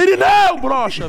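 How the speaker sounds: high, loud yell of the name; shouting a taunt at the neighbour by name; shouted taunt. Acted. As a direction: call it out across the street to provoke. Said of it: "eu fui gritando".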